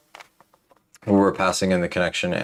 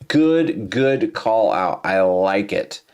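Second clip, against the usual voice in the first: pleased; much slower than usual. Real, not acted. Approving the AI's answer.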